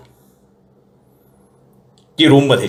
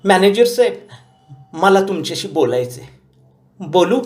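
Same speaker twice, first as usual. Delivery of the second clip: much higher granny voice, insistent; old grandmother; 10 semitones higher than usual. A narrator's reading. Grandmother telling grandson she wants to talk, insistent. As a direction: insist like a determined old lady.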